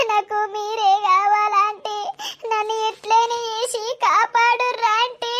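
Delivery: tearful pleading. Acted. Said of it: "ఎందుకు ఏడుస్తున్నావు చెప్పు?".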